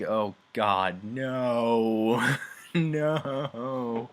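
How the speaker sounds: loud, drawn-out mock despair; mock dread. Reacting to a banquet held for the men, mock dread. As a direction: wail it in hammed-up dread.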